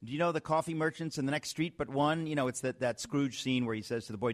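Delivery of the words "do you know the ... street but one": higher-pitched mock call from a window; shouting down. Host as Scrooge figure calling the boy below, mock shout. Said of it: "I shout down".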